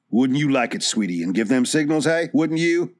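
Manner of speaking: Dobbs taunting Lacard, a light mock sneer; mock him with a sneer. Dobbs taunts suspected Lacard, a light sneer. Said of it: "Dobbs sneered".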